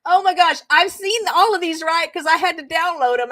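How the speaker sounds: high, loud, just after a laughing fit; barely composed. Real, not acted. Host explaining after losing it, barely composed. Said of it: "trying my best to not break character".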